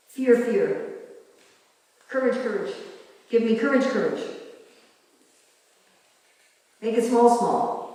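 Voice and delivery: "Fear, fear" and "Courage, courage" as emphatic doubles; repeated for emphasis. Shown as a demonstration. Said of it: "is to repeat".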